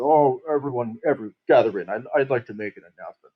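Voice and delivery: a light mock of a smug troupe leader; douchebag showman. Mocking the troupe leader calling everyone into the tent, lightly smug. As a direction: lightly imitate a pompous ringmaster gathering everyone. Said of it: "That's how he sounded. That's how he talked, like a fucking douchebag".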